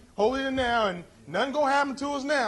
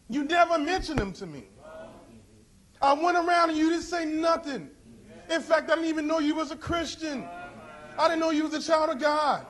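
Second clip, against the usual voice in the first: raised, higher accusing voice; accusing cry; 4 semitones higher than usual. Acted. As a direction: shout the blame at the silent Christian. Lost soul accusing a Christian.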